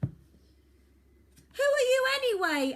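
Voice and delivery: high, loud, very slow demand; demanding girl. Acted. Girl demands the boy's name, high, loud and slow. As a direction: drag out the challenge. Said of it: "asked Iris".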